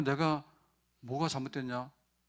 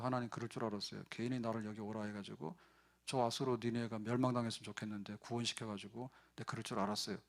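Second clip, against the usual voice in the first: grumbling; 2 semitones lower, 5 dB quieter than usual. Retold or imitated. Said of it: "그러고는 이제 투덜거리잖아요".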